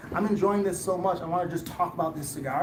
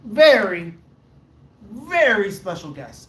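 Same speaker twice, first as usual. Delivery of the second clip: announcer hype; 6 dB louder, slower than usual. Real, not acted. Introducing the special guest.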